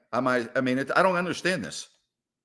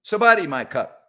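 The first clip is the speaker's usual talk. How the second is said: greeting in Thai; 3 semitones higher, 5 dB louder than usual. Pretend. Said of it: "I know a little bit of Thai".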